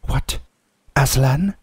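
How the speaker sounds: mild, questioning shock, rising on the name; startled cry. A narrator's reading. Witch hearing of Aslan from Edmund, mildly startled. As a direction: react in disbelief without shouting. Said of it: "cried the queen".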